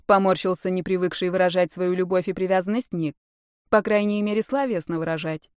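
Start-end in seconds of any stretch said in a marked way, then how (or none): none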